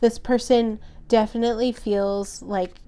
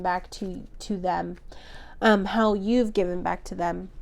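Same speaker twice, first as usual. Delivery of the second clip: losing voice; 2 semitones lower than usual. Real, not acted. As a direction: voice giving out, a bit hoarse. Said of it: "I'm starting to lose my voice".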